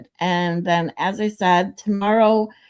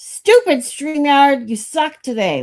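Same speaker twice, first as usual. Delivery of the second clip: annoyed; 7 semitones higher, 6 dB louder than usual. Real, not acted. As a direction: drag it out in real annoyance. Streamer angry at broken software.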